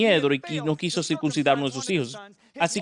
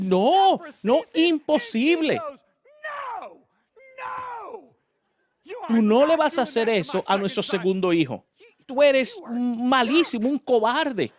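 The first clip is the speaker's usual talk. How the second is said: higher, slow indignant refusal; outraged wife; 7 semitones higher, slower than usual. Acted. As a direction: refuse him outright, furious. (la esposa furiosa se niega, lenta y aguda)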